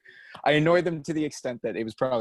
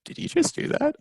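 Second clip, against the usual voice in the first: whispered. Retold or imitated. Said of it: "everyone looked at me like".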